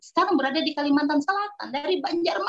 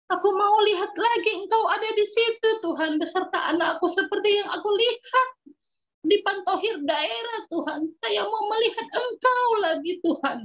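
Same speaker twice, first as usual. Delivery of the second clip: a touch of tears in a longing retold prayer; tearful prayer; 4 semitones higher than usual. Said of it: "saya menangis". (doa sambil sedikit menangis)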